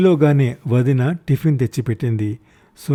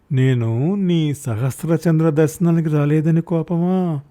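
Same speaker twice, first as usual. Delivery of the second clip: pleading; 4 semitones higher, slower than usual. Acted. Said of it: "దీనంగా అడిగాను".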